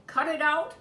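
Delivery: a little squeak, miserable and small. Acted. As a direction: squeak it out, unhappy. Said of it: "squeaked miserably".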